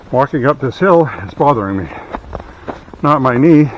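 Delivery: breathless from climbing uphill; out of breath. Real, not acted. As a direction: talk between heavy breaths. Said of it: "so I can breathe properly".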